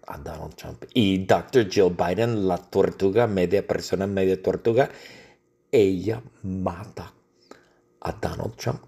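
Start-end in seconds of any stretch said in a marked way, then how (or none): 5.7-8.8 whisper. Acted. Whispered killing reveal.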